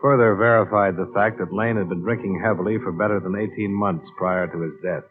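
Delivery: dry, matter-of-fact case narration over music; noir detective narration. A narrator's reading. Investigator recounting his case to the audience, dry noir narration. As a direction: report the case to the listener like an expense log.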